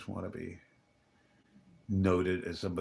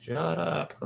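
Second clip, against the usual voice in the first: high, louder mock snapping; mock snap; 10 semitones higher, 4 dB louder, much slower than usual. Snapping at the chatty guy in the lobby, hammed-up. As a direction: play at telling him off.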